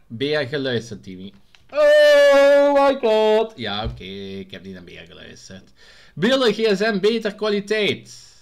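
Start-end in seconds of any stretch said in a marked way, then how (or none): 1.7-3.5 high, loud, long-held wail; overdreven uitroep. Pretend. Mock outcry at being told off. 3.5-5.7 low, soft, sheepish admission; kleintjes toegeven. Pretend. Sheepish admission after the outcry. 6.1-8.3 high, loud comment read-out; luid voorlezen. Pretend. Reads viewer comment in raised voice.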